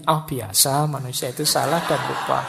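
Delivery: same reassurance, a bit firmer with a laugh; mock nonchalance on a repeated slip; different intonation. Positive thinker forgetting the key again, half-laughing reassurance. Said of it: "cuma intonasinya yang agak berbeda".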